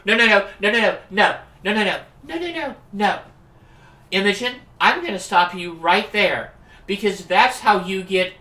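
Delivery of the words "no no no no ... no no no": rapid protest. Acted. Cutting friend off.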